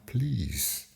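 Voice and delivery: drawn-out pleading please; appealing. Real, not acted. YouTuber asking viewers to subscribe, appealing. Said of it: "I am appealing to people".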